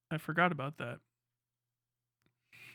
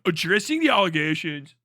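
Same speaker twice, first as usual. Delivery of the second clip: louder put-on British YouTuber; Pyrocynical; 6 dB louder than usual. British YouTuber opening his scandal response, mock British accent. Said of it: "do the fucking Pyrocynical".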